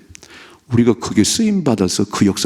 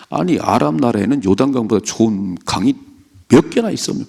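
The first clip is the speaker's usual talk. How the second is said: indignant general. Acted. Naaman angrily retorting.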